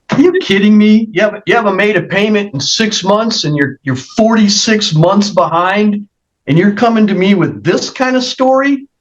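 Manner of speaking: real incredulous challenge, pitch lifting at the end; indignant, exasperated questioning from the bench; incredulous rebuke. Real, not acted. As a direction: confront them in disbelief. Judge confronts defendant over missed payments.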